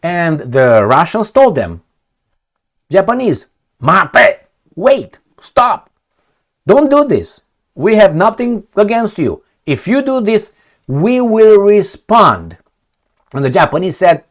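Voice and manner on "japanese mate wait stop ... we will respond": raised, higher warning voice to a neighbour; stern warning. Acted. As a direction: put a hand up and warn them off. Russians warning Japan, voiced.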